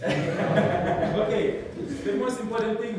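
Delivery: real laugh bursting into a high, loud "Okay"; laugh, then carry on through it; amused, loud, laughing acknowledgement. Real, not acted. Laughs at reply from the audience.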